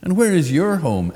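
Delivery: very high, loud, prying bird; shrill crow question, high up; old crow voice. A narrator's reading.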